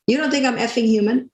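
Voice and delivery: retold outburst. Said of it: "I did use the full expletive".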